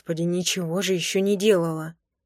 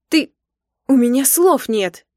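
much louder, higher outraged cry; 5 semitones higher, 8 dB louder than usual. Acted. Wife outraged at husband, much louder. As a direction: explode at him, speechless.

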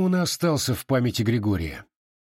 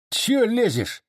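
high, testy retort; snapping back; 11 semitones higher, slower than usual. A narrator's reading. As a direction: brush off the nosy sergeant. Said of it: "огрызнулся Чубатый".

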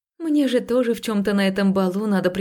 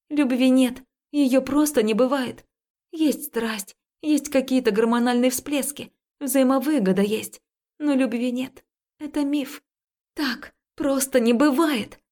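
almost shouting; 4 semitones higher than usual. Acted. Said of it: "Последнее я почти выкрикнула".

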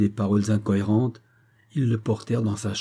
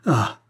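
short, restrained cry of alarm; cry of despair; 4 dB louder than usual. A narrator's reading. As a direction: let out a brief stricken "ah". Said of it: "cria-t-il".

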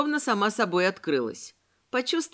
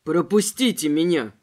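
lower, louder begging plea; pleading; 5 semitones lower, 4 dB louder than usual. A narrator's reading. Robespierre begging the armed robber, pleading. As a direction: beg them to let you pass. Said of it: "взмолился Робеспьер".

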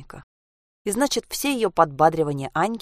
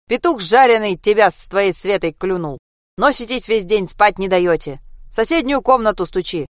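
loud, irritated telling-off through a door; angry neighbour scolding; 2 semitones higher, 6 dB louder than usual. Acted. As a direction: scold the noisy kids away. (сердито и громко отчитывать детей)

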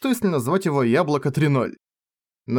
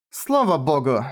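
relieved; slower than usual. Acted. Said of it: "облегчённо ответила Ренге".

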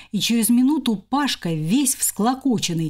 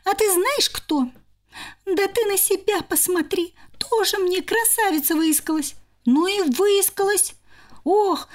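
high, shrill-free bickering squirrels, much higher; squabbling squirrel sisters; 7 semitones higher than usual. Acted. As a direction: trade insults like quarrelling little sisters. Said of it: "кричали".

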